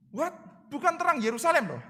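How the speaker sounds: high, disbelieving "What?"; mock astonishment at the claim; mock surprise. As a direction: toss it up in disbelief. Reacts to huge claim.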